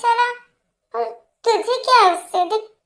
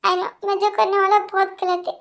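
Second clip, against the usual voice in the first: desperate, weepy declaration of love; tearful apology. Acted. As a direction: beg forgiveness on the verge of tears. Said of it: "मेरे लिए रो रहे हो".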